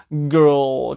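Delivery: put-on "girl" ending in a dark, throat-made L. Shown as a demonstration. Teacher shows a syllable-final L, dark and throaty "girl". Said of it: "목으로만 이제 오, 오 해서 어두운".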